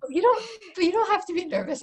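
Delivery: high-pitched, cooing reassurance; reassuring. Real, not acted. Author to a nervous interviewer who needn't worry, reassuring.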